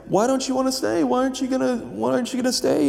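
high, insistent pleading questions; imitating a pushy hostess; irritated lady. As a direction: needle them to stay, irritated. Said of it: "she was very irritated".

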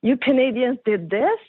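retold shock, pitch lifting on questions. Retelling a film star's shocked reaction to Canadians, mildly shocked. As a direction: mildly imitate a stunned man's disbelief. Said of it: "He was shocked and said".

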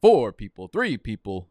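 mock game-show countdown, punching the numbers; game host countdown. Streamer counting down players still needed, mock game host. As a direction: drag out the last "four" like a host. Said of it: "feel like I'm a fucking game host".

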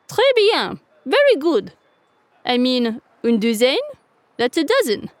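high, bright rooster voice; amused cockerel. A narrator's reading. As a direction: play the jolly cockerel teasing. Cockerel explains.

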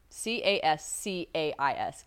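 slow, separated letters; spelling out. Shown as a demonstration. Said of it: "I'm spelling it wrong again".

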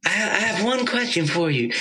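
lightly voiced soft-spoken Texan; Ornette's soft Southern voice. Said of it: "Southern voice, but, like, real kinda light and soft".

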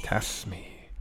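soft hushed repeat; whispered echo. Retold or imitated. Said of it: "echoing the quote".

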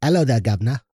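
put-on hammy, dropped-h British accent; bad British accent. Cohost greeting a governor in a bad British accent. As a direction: have a poor go at British. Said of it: "My British accent sucks".

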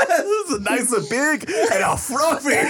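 laughing. Real, not acted. Laughing hard.

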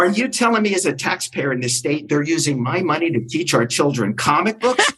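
hammed-up angry phone complaint; retold screaming. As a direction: build indignant disbelief for effect. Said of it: "I started screaming at him".

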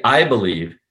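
"I" hammered, "believe" lighter; stress on I. Shown as a demonstration. Coach showing how to get attention, "I" hammered. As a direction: hit "I" hard, ease off "believe". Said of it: "you hammer".

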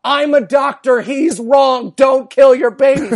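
loud, firm demand as the doctor should have; imagined doctor's shout. Retold or imitated. Comic wishing the doctor had shouted on stage, loud and firm. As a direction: bark it like a doctor laying down the law. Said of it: "He had one fucking chance to go".

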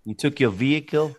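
ribbing a Southern friend's vehicle; mock Southern accent. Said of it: "He's making fun of my Southern accent".

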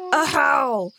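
loud, high cry of fright; startled cry. A narrator's reading. Bear facing the avenger, crying out in fear. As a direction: cry out as if shot. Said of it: "cried he, as if he had been shot".

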